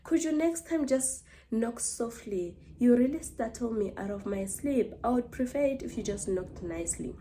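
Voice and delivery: mild show of innocence, quiet and polite; acting innocent. Woken sleeper asking the neighbour to knock softly, acting innocent. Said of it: "looking as innocent as ever".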